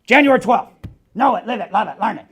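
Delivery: loud upbeat chant of the date; cheerful slogan. Retold or imitated. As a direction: announce it like a motto. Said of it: "he goes".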